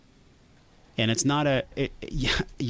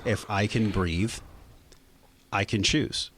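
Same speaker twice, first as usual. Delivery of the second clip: "If I can breathe, I can choose" said slowly with pauses; mantra, slow; slower than usual. Shown as a demonstration. Guest stating his breathing mantra, slow and measured. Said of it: "And so it's".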